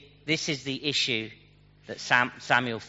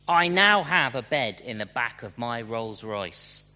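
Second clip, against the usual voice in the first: arrogant twang; 5 dB louder than usual. Retold or imitated. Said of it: "with an arrogant twang".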